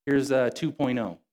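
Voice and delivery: breezy, casual pretend God owning up; mock apologetic God. God as the preacher imagines him admitting a mistake, mock casual. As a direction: shrug it off like a buddy. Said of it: "No, God doesn't say".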